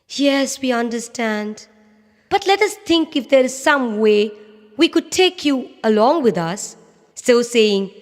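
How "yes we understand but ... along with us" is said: birds voice, higher and caring; lightly voiced geese comforting; kind birds. Birds answer tortoise.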